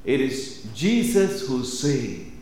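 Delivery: slow phrase with "Jesus" standing out; stress on JESUS. Shown as a demonstration. Explaining the Greek emphasis to the congregation, stress on "Jesus". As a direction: lean on "Jesus", let the rest drop away. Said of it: "That is the emphasis".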